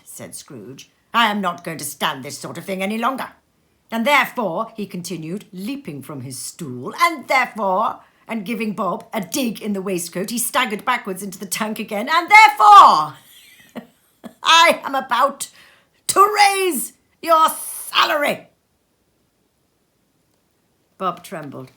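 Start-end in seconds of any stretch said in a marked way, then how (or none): 1.1-3.3 mock scolding. Scrooge feigns scolding Bob. 3.9-4.7 loud, stretched therefore; mock threat. Scrooge teasing Bob before the big news, loud. 7.0-8.0 loud, stretched therefore; mock threat. Scrooge teasing Bob before the big news, loud. 12.1-18.5 much higher and louder, laughing, slow end; laughing outburst. Acted. Scrooge revealing Bob's raise, high, loud and laughing.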